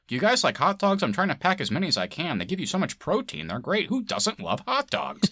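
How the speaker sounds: high, chirpy cheerful hot dog guy; bright high mock enthusiasm over hot dogs; goofy guy impression. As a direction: ham up a clueless cheery man. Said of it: "some guy in his greenhouse".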